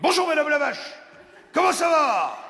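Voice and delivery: bright high greeting to a hen; sing-song greeting to hen. Acted. Ventriloquist greets cow.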